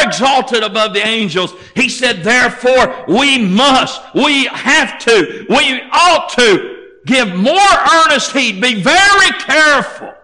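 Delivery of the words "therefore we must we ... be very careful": building to a high, forceful exhortation; urgent preaching. Real, not acted. Preacher urging listeners to give earnest heed, urgently. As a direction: press each phrase harder, climbing as you go.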